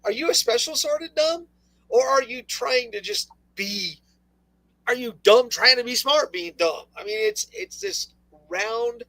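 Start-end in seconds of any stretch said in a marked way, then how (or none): 0.0-6.9 high-pitched, incredulous mock query; mock questioning. Host acting out a reply to an accuser, mock incredulous. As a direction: put it as an exasperated question.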